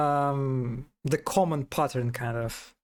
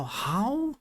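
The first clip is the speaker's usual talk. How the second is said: high bark; dog bark imitation; 6 semitones higher than usual. Shown as a demonstration. Trying out the Arabic dog sound, high mock bark. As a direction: howl the word like a dog. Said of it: "Arabic is how".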